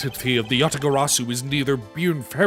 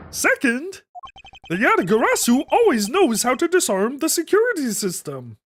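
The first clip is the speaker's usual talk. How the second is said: flashback voice; 7 semitones higher than usual. Acted. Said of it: "This is the flashback voice".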